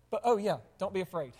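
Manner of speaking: quick, offhand ironic aside; dry irony. Pretend. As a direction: toss it off with a wry shrug. Ironic punchline after listing dangers.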